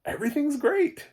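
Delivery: mock over-cheerful narrator, very high and loud; relentlessly upbeat. Reviewer mimicking the film's too-happy narrator, mock relentlessly upbeat. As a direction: imitate a blindly optimistic voice, pitch soaring. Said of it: "it was so weird. His, it was like".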